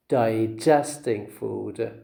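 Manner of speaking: slow Digesting food, di-GEST-ing stressed on GEST; second-syllable stress. Shown as a demonstration. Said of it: "You say digest".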